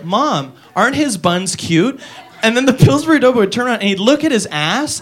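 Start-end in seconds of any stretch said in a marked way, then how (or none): 0.0-2.0 slow, softer sing-song question; ad girl. Acted. Comic mimicking the ad girl, lightly sweet. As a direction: drawl it out like a cute kid in an ad. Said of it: "she'd go".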